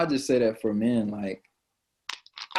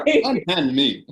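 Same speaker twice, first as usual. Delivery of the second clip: mock damsel plea; 4 semitones higher, 4 dB louder, slower than usual. Slow dramatic plea.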